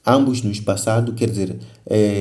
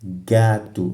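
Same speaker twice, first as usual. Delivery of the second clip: "gato" repeated with weight on GA; falling GA-to, first syllable leading; stress on first syllable. Shown as a demonstration. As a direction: show the stronger GA in "gato". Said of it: "ga é a sílaba tônica".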